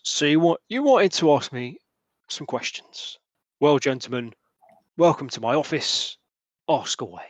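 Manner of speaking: lightly voiced gruff old local, sly and welcoming; a hint of a shady dockside host; Hamish. Hamish inviting the players into his hut, lightly voiced and sly.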